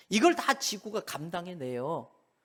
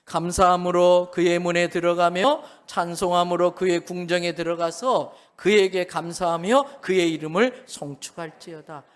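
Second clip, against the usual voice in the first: scripture reading; 8 dB louder than usual. Shown as a demonstration. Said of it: "다 같이 읽겠습니다".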